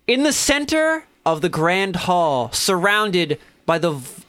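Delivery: slow, suspenseful scene-setting with long pauses; game master narration. A narrator's reading. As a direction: reveal the room piece by piece.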